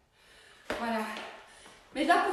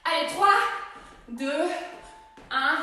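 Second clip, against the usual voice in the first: barking gym coach. Real, not acted. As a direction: bark out the count. Coach counts down loudly.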